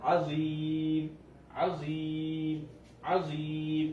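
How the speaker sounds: আজিম with the middle vowel lengthened; stretched recitation. Shown as a demonstration. Teacher repeating the example to students, drawn out. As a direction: pull out the ই in আজিম. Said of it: "মধ্যে আরজিটা".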